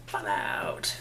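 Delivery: "Fallout" whispered low and breathy; whispered echo. Pretend. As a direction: repeat "Fallout" in a dramatic hush.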